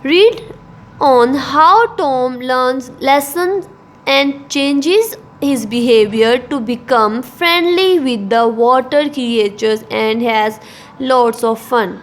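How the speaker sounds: reading the textbook passage aloud slowly and carefully; careful classroom reading, x0.5 pace; slow, measured textbook reading for students. Acted. Teacher reads textbook aloud.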